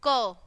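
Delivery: क as "kuh", consonant plus short vowel; letter sound demo. Shown as a demonstration. Teacher showing the sound in cat, letter sound demo. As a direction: sound out क on its own. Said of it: "क्या बोलेंगे".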